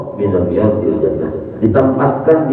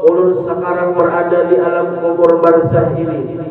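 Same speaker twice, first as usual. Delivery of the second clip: higher, pleading wail of a dead man begging; corpse weeping plea; 5 semitones higher than usual. Acted. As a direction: cry out to God, begging for another life. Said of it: "mayat menangis sejadi-jadinya".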